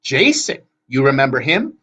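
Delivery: put-on high, loud excited old sister; excited hag. A narrator's reading. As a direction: call out the name high and loud. Anger boasts to her sisters.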